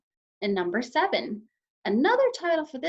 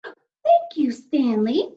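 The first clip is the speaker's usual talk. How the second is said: hushed, grateful whisper; whispered thanks; 4 semitones higher, 7 dB louder, much slower than usual. A narrator's reading. Mother whispers thanks to Stanley down the shaft. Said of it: "Missus Lambchop said".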